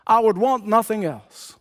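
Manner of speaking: high, sustained cry of craving; imitated crying out. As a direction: act out a grand, high-pitched wish. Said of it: "he cried out and said".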